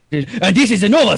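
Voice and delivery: second British accent. Shown as a demonstration. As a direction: switch to another British voice. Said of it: "that's two different voices".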